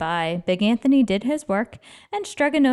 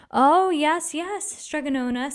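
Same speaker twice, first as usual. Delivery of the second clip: eager; 7 semitones higher than usual. Acted. Anthony eagerly agreeing.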